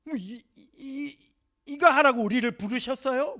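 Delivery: high stammering protest; high stuttering complaint. Acted. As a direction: sputter the objection in disbelief. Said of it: "항변".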